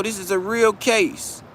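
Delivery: firm lawyer insisting; white voice. Retold or imitated. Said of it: "That's how they talk to him".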